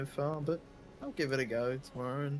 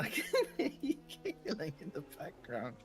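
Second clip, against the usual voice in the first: amused accusation broken by laughter; real laughing; 4 dB quieter than usual. Real, not acted. Co-host catching the other giggling in the background, laughing. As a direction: talk through a laugh.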